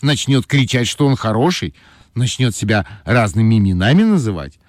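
put-on high, sly girl voice; capricious girl voice. A narrator's reading. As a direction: scheme like a little trickster. Ойка tricks the bear.

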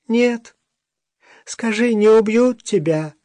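high, anxious pleading question; urgently worried for her. Acted. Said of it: "Он с тревогой заглянул".

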